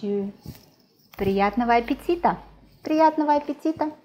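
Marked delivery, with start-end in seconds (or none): 2.8-3.9 cheerful wish. Real, not acted.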